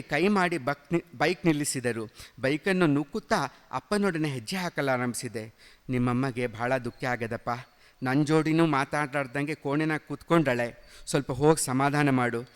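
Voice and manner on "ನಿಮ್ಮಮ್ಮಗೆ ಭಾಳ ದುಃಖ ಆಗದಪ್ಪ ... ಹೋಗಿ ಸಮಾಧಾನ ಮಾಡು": softer, lower, gently begging father; a father quietly pleading with his son. Acted. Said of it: "ಎಂದು ಬೇಡಿಕೊಂಡರು". (ಮೃದುವಾಗಿ ಬೇಡಿಕೊಳ್ಳುವ ತಂದೆ)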